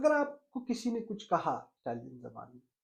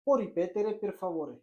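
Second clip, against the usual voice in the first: slow model phrase; much slower than usual. Shown as a demonstration. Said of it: "तो आप उससे कहें".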